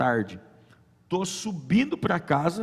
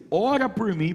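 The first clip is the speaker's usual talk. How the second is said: retold plea; 6 semitones higher, slower than usual. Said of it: "Eu falei bem assim".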